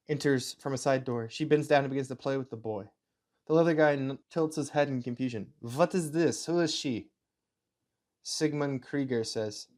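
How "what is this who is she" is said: put-on amateur German accent, slightly Russian. Officer confused by the woman, German accent. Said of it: "my German accent slips a little into Russian".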